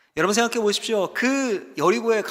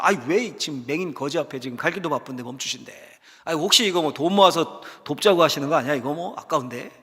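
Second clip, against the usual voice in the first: lightly acted, lower-pitched grumble; inward grumbling; 4 semitones lower than usual. Crowd member resents stopping for a beggar, mild grumbling. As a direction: complain under the breath, reluctantly. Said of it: "속으로 싫어했을 수도".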